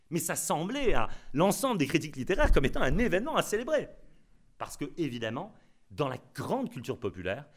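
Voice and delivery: normal talking voice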